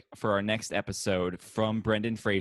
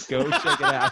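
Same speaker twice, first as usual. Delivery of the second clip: squeaky hype; 6 dB louder than usual. Acted. Hyping YouTube live show, laughing.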